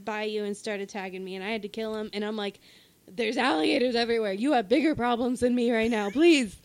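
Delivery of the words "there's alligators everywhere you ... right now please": quick, louder mock plea; exasperated pleading. Player begging bayou attackers, exasperated. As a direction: plead with them, louder on the last word.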